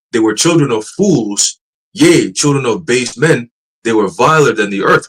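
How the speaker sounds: slow, deliberate Bible reading; scripture reading. Acted. Reading Job to listeners, slow and solemn. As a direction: read the verse with weight, slowly.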